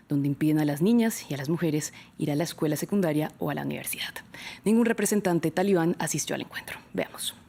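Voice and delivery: measured newsreader delivery; news read. Acted. Host introducing a report on Malala to viewers, news-anchor read.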